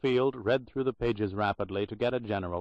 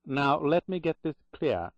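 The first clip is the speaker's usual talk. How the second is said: put-on Boston accent; 5 semitones higher than usual. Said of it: "she said in a strong Boston accent".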